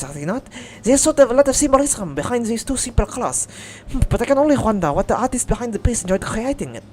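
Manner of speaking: thoughtful French lady musing on art; French accent. Acted. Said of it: "even though she's French".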